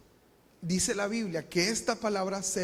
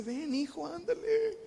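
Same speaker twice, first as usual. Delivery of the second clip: coaxing, much higher father's voice; pleading father; 5 semitones higher than usual. Acted. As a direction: gently beg the son to come in. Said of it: "Le rogaba que entrase".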